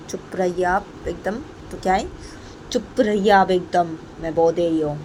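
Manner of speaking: slow, drawn-out firm order; stern warning. Acted. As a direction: stretch the order out, without raising pitch. Payal orders Poonam to be quiet.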